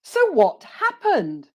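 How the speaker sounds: high, drawn-out "happened" with a falling tune; slow, eager-listener swoop on "So what happened"; model intonation. Shown as a demonstration. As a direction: pitch "happened" high, then let it fall for students to copy. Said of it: "listen to my intonation".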